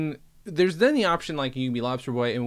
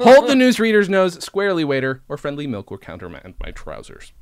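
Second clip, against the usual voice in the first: laughing retry; 4 semitones higher, 10 dB louder than usual. Shown as a demonstration. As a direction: restart the line high and loud, laughing through the start. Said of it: "Oh my God, I fucked it up".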